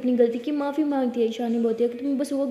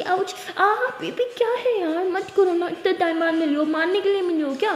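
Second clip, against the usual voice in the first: whiny protest; 4 semitones higher, 4 dB louder than usual. Acted. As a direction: complain like it really hurts. Ishani hit harder, whining.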